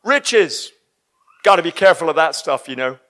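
mock-worried preachy tone; mocking people wary of riches; mocking pious caution. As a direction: send up the cautious churchgoer. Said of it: "People are like".

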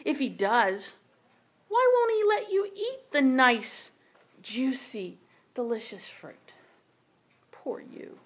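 a lightly voiced tempter, rising on "nice" and fading to a whisper; sly serpent. Serpent tempting Eve, lightly voiced and sinking to a whisper. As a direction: coax her with sweet mock pity. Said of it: "the serpent whispered".

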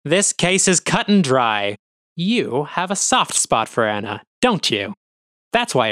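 accusing. Acted. Officer accuses colleague.

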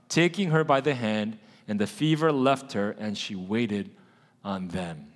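congregation reading aloud together; many voices in unison. Real, not acted. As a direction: read together in one voice. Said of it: "we're gonna read together in one voice".

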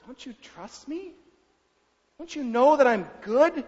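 high, loving appeal rising to loud pleading; voice of God. Retold or imitated. God pleading with his stubborn child, high and rising. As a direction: plead as a father who knows best. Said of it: "with God, like, he's laughing".

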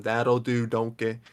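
lightly attempted Scottish accent; bad Scottish accent. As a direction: have a rough go at a Scottish accent. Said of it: "even I wanna do the Scottish accent".

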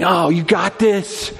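bright, over-the-top cheerleading pastor; mock hype-man preacher, laughing at it; hype pastor parody. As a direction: pump them up like a cheesy motivator. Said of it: "to be like".

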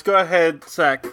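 a hint of a cuddly little bear; baby bear voice. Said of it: "Let me get in my baby bear voice".

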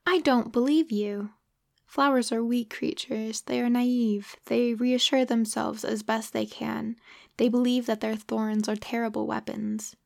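put-on a child's resentful protest; resentful retort. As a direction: snap back at the pilot. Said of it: "flashed back at me with a kind of resentfulness".

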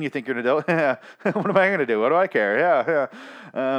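high, loud sarcastic mom rant; exasperated mom. Retold or imitated. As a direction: play the fed-up mom pretending she can't stop her kid. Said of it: "one of those moms that's like".

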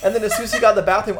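laughing while talking fast; stifled giggles. Real, not acted. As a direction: giggles breaking through. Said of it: "I couldn't stop laughing".

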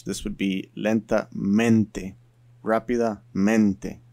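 slow, clear Spanish "lentamente", "rápidamente"; Spanish adverbs. Shown as a demonstration. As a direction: pronounce the Spanish slowly, stressing "mente". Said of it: "In Spanish".

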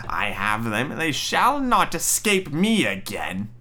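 slow, drawn-out mock menace; malicious mocking. Witch gloating as the children come near, mocking. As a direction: gloat slowly over the catch, rising midway. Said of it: "she laughed with malice and said mockingly".

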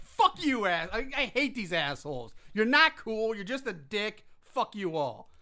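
high, loud mock yell at the drivers; reenacted furious shout; retold angry outburst. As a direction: relive the rage at the street. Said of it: "I'm like".

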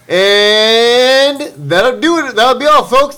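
high, slow stuttering cartoon pig; lightly voiced cartoon pig sign-off; Porky Pig. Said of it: "Porky Pig noises".

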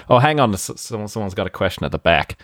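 mock American president taking a press question, accent put on; improvised American-accent press conference voice; Trump. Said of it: "do it in a Trump accent".

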